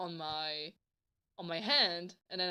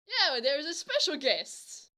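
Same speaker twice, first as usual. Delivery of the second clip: imitated girl, higher and slower; eager confirmation; 7 semitones higher, 4 dB louder than usual. Girl confirming her surprise to him, eager. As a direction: announce it with drawn-out relish.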